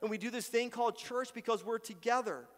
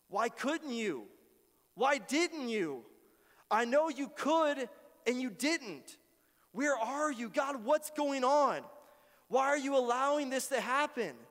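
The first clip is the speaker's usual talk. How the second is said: raised, higher, slow and demanding; pleading complaint; 5 semitones higher, 4 dB louder than usual. Acted. Pastor voicing a hurt believer's complaint to God, raised and pleading. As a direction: press God for answers.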